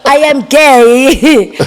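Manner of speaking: put-on Ugandan accent. Answering the accented question.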